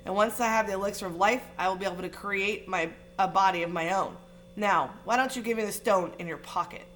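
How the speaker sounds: lightly voiced menacing dark lord; a cold, persuasive villain tempting the boy; Voldemort's voice. Dark lord coaxes Harry for the stone, lightly menacing.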